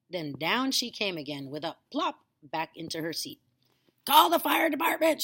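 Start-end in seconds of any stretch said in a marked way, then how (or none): 4.1-5.2 much higher, loud panicked shout; grandma shouting in alarm. A narrator's reading. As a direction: scream for help. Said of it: "she shouted suddenly".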